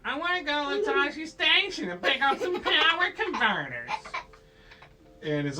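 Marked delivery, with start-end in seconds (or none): 0.0-3.9 high, loud, whiny mock teenager voice; hammed-up pleading whine; super whiny. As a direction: whine it in an exaggerated high pitch. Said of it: "super whiny".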